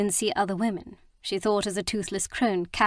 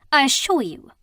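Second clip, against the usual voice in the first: higher, louder cutting assurance; cold retort; 5 semitones higher, 6 dB louder than usual. Acted. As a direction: fling it back at him. Mina retorts coldly.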